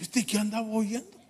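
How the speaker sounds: soft, laughing mock shock; amused disbelief. Preacher recalling the pastor's car radio, softly laughing. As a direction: laugh through the question. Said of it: "Digo yo".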